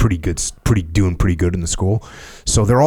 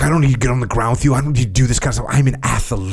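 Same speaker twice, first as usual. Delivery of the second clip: smug; 3 semitones higher, much faster than usual. Retold or imitated. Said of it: "he's like".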